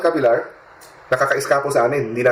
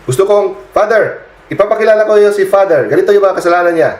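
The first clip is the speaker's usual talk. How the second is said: high, tense mock demon voice; possessed person's voice; 7 semitones higher, 6 dB louder than usual. Priest voicing the demon accusing a father, high mock-demon sneer. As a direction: raise the pitch and sneer like the possessed. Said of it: "Sabi ng possessed".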